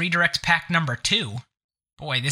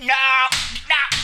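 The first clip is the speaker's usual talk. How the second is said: mock dismay; 8 semitones higher than usual. Bot switched off, mock dismay.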